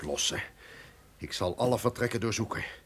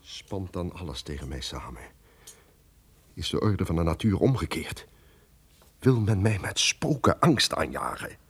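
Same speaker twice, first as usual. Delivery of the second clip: brooding; 4 semitones lower than usual. Acted. Duke's fearful soliloquy.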